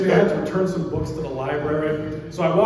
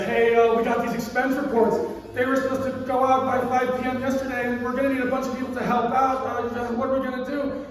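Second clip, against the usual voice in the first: boss voice; 6 semitones higher than usual. Retold or imitated. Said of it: "he says".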